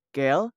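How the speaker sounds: "Quel" as plural quels, ending on L; silent S. Shown as a demonstration. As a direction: say "Quel" as "kel", no S sound. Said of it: "Huruf S tidak dibaca".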